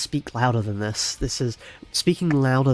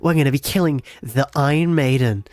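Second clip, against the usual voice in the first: louder, slow hammed-up plug for subscribing; over-exaggerated YouTuber outro; 6 dB louder than usual. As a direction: drag out the like-and-subscribe line, cheesy YouTuber. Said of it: "Can I do an over-exaggerated YouTube?".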